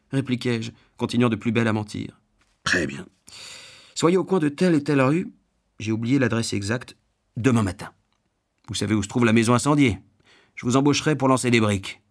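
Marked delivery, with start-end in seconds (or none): 2.6-12.0 lightly acted brusque boss giving orders; gruff householder. Householder offering a beggar brick work, a touch brusque. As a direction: lay out the instructions curtly.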